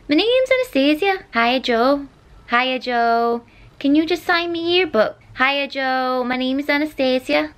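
high-pitched attempt at a Manchester accent; put-on Manchester accent. Shown as a demonstration. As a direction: rehearse a fan's introduction in a high Mancunian accent. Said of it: "hard to say in an accent".

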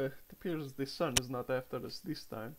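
settling after a panic; composed, moderate volume; calmed down. Acted. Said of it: "he kinda calms down".

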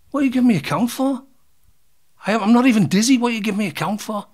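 high-pitched, quick incredulous complaint; indignant protest. Retold or imitated. Boxer to referee who is counting him, indignant. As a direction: protest the count in rising disbelief.

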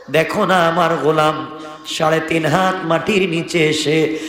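normal talking voice

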